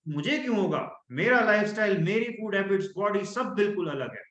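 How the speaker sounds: bold, dismissive rhetorical question; confident questioning. Shown as a demonstration. Coach demonstrating confident self-talk, sure and dismissive. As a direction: toss it off as if cancer could never touch you. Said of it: "मैं question कर रहा हूँ".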